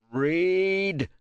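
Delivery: loud barked order; furious command. A narrator's reading. Kratos demanding the translator read on, loud furious bark. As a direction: slam the word down.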